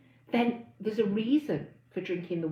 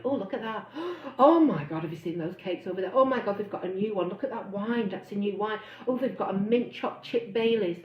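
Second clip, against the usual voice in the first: gasping, breathless delight at the shelves; mock-giddy shopper spotting treats; excited greedy monkey. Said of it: "your monkey will be out there going".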